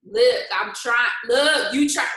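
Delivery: imitating someone barely holding it together; slow, drawn-out retold warning; straining for composure. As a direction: act out trying hard not to blow up. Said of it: "She was trying real hard to, like, bring it together".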